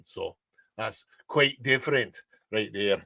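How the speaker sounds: ordinary talk, nothing marked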